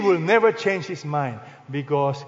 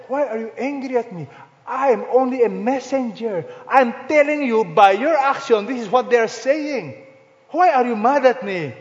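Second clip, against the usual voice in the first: retold exasperated protest; 4 semitones higher, 3 dB louder than usual. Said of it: "I said".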